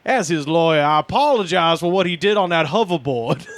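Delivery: lightly voiced country lawyer; a hint of a folksy lawyer; simple country lawyer. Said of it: "I like to imagine he's a simple country lawyer".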